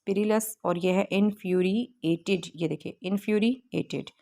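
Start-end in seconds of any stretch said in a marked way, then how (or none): 1.1-2.4 इन्फ्यूरिएटेड in careful parts, "in-fyuri... ated"; careful pronunciation. Shown as a demonstration. Teacher modelling pronunciation, इन्फ्यूरिएटेड carefully broken into parts. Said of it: "इनकी हमने pronunciation करनी है". 3.0-4.1 इन्फ्यूरिएटेड parted before "ated"; careful pronunciation. Shown as a demonstration. Teacher modelling pronunciation, इन्फ्यूरिएटेड broken into careful pieces. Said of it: "ये इसकी हमने pronunciation की है".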